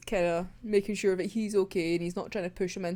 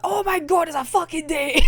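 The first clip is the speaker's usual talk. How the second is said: high, loud mock squeal of delight; excited gush; 8 semitones higher, 8 dB louder than usual. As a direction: squeal it like a thrilled fangirl. Friend gushing at the date.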